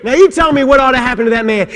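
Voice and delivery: ordinary talk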